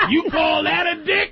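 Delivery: high, slow, laughing taunt; mock sassy woman. Comedian voicing a cohost's bedroom sass. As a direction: scoff at him like a diva. Acting out girlfriend in bed.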